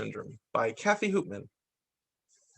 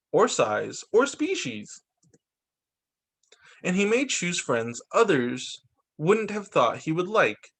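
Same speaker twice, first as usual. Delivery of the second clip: measured read-aloud storytelling; picture-book narration. A narrator's reading. Reader presenting the Asperger child, picture-book narration. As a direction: read it out with careful phrase breaks.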